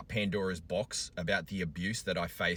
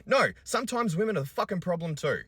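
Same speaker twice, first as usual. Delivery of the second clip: loud, high furious declaration; angry rebuttal; 12 semitones higher, 5 dB louder than usual. Real, not acted. Father raging against vindictive commenters, loud high shout. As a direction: hurl it out in full rage.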